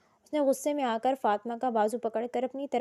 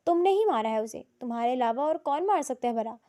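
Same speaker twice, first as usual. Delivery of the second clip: louder roar. Acted. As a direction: shout the accusation back at him. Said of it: "اس سے بھی زیادہ اونچی آواز میں دھاڑ کر".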